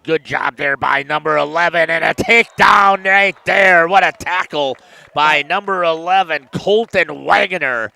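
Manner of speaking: loud, rising play-by-play shout; real burst of commentator excitement; excited sack call. Real, not acted. Commentator calling a big sack live.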